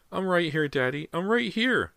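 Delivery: put-on high little-boy cry; tiny frightened voice. A narrator's reading. Boy answers Daddy's search, tiny frightened high voice. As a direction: call urgently as a small scared child. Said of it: "the tiny, frightened voice said".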